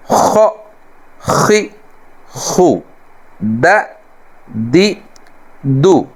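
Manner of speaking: Arabic accent: جا جی جو خ خی خو with a pitched throaty lift; Arabic-style reading. Shown as a demonstration. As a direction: read the letters the Arabic way. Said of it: "عربی لہجے میں عربی طرز پر". (عربی لہجے میں جا جی جو)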